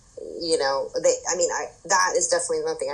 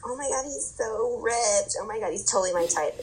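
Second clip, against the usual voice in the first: gushing; 4 semitones higher than usual. Acted. Mimicking a contestant swooning over a new arrival, gushing. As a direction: gush like a smitten contestant.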